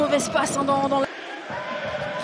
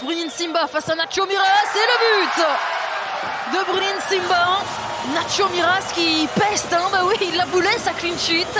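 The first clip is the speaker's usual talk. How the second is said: excited goal call; 3 semitones higher than usual. Real, not acted. Penalty scored.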